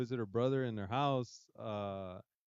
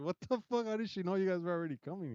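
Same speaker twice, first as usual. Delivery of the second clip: retold shock; 7 semitones higher, faster than usual. Own shock at daughter's prediction.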